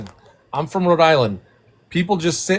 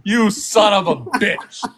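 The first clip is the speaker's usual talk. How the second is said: slow laughing mock insult; 7 semitones higher, 5 dB louder, slower than usual. Real, not acted. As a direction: insult him while cracking up.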